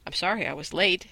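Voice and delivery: ordinary delivery, nothing marked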